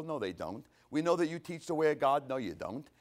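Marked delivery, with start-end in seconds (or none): 0.9-2.3 mock flattery. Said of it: "this is a good way to butter him up".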